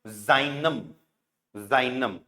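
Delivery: जाइनम with an ai vowel, then a short nam; teacher saying जाइनम; German pronunciation. Shown as a demonstration. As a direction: model जाइनम slowly, syllable by syllable. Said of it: "तो हमको क्या करना है इसको".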